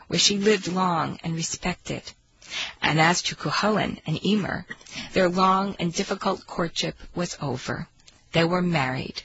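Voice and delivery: storyteller reading aloud; story narration. Acted. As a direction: tell it like an old tale.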